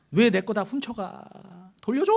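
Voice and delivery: drawn-out, rising cry of protest; hammed-up wail climbing to a high shout; mock outraged yell. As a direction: call after fleeing thieves, stretching the words. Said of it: "미가가 막 쫓아가요".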